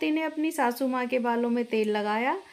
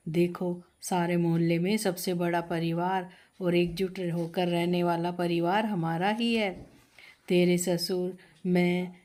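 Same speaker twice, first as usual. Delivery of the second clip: a slightly lower, motherly mother-in-law welcoming the bride; 6 semitones lower than usual. Acted. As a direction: speak as the proud mother-in-law showing off her big family. (थोड़ी नीची आवाज़ में सास का किरदार)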